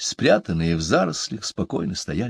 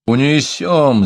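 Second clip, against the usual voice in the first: reassuring; 6 semitones higher, 5 dB louder, slower than usual. A narrator's reading. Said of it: "заверил Рагнур".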